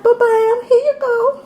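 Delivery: high, showy ba-bam; playful ta-da. Pretend. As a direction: hand it over with a flourish. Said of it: "Be like".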